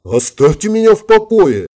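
acted flustered outcry; alarmed protest. A narrator's reading. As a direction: push the admirer away in a high voice. Tears her hands off his neck.

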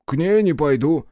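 high, loud, sullen refusal; sulky secretary. A narrator's reading. Secretary refuses his master, high and sulky. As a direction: dig in, refusing.

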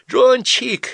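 high, loud happy chirp; carefree chirping. A narrator's reading. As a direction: chirp it out carelessly. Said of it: "беззаботным голоском прощебетала Ася".

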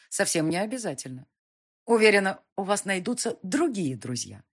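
cold contempt. Acted. Heroine coldly dismisses count.

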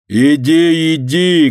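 insistent shouted push; driving away. A narrator's reading. Yardkeeper chasing old man out, shouting. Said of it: "гнал он старика".

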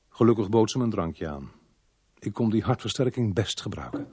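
understated detective narration; thoughtful first-person storytelling; story narration. Acted. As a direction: reflect aloud for the listener. Detective narrates between scenes.

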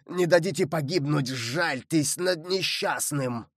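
understated imploring cry; imploring appeal. Acted. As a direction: appeal for mercy from the water. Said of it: "взывал Мордаунд".

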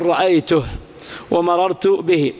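رأيته and به ending on a bare h; silent-vowel ha. Shown as a demonstration. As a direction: drop the vowel after h in رأيته and به. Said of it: "تحذف هذه الصلة". (الوقف على رأيته وبه بهاء ساكنة)

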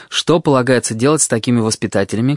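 ordinary delivery

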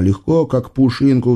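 ordinary delivery, nothing marked

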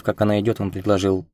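usual speaking voice

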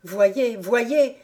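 exclaiming. Acted. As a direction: thrust it at her urgently. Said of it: "s'écria le jeune homme".

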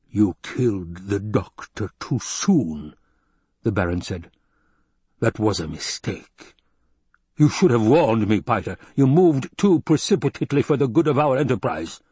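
villain scolding his Mentat; Baron's rebuke. Acted. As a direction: lean into the menace.

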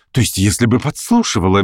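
usual speaking voice

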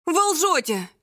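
loud, high outraged shout. A narrator's reading. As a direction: yell it at full strength. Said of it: "закричать во всю мочь".

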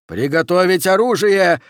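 high, loud alarmed order; terrified yell. Acted. Oxy orders his officers to arm, yelling in terror. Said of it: "в ужасе завопил Окси".

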